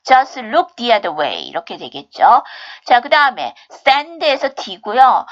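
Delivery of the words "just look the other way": "Just" said without its T, straight into "look"; "Just look the other way" linked, no T in "Just"; dropped T. Shown as a demonstration. Teacher showing which sound to skip, dropped-T pronunciation. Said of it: "두 번째 점 T 하지 마세요".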